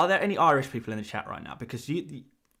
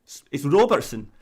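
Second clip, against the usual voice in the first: attempted Scottish accent on ROBERTSON; 3 dB louder than usual. YouTuber retrying the name for viewers, mock Scottish accent. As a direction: have a go at a Scot saying "Robertson". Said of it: "trying to do a Scottish accent again".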